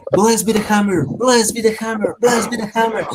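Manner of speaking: high, chanted cry, volume held back; screamed battle prayer. Acted. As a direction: play a religious zealot crying out a blessing over and over. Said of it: "he starts screaming".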